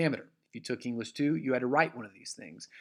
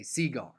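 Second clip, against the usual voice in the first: cigar jokingly stressed on CI; CI-gar, first syllable emphasized for a laugh; dad-joke cigar with the weight on the first syllable; joking misplaced stress. Shown as a demonstration. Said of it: "my dad trying to be funny".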